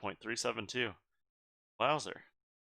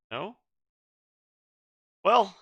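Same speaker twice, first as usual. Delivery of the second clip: spooky; 8 semitones higher, 5 dB louder than usual. Real, not acted. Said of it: "I sound spooky".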